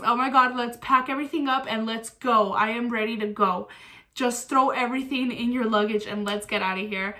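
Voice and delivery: eager, energetic push to get going; excited urging. Retold or imitated. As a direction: urge someone along, thrilled to be leaving. Retold excited rush to leave.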